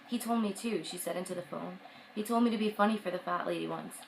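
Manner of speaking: reading a novel aloud; story narration. A narrator's reading. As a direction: read it like an audiobook. Reads a novel passage aloud.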